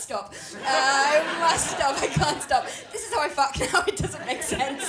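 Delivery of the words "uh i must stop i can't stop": breathless frenzy. Acted. Panting mock frenzy.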